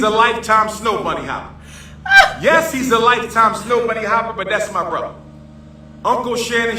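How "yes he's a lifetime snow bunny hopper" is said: laughing through the words; breaking into laughter on the repeat. Real, not acted. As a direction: crack up while saying it. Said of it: "repeated with laugh".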